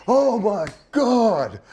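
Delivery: high, very drawn-out moan; hammed-up wail, close to crying; mock horror. Tall dude seeing feet sticking out, mock anguished wail. Same horror at third victim.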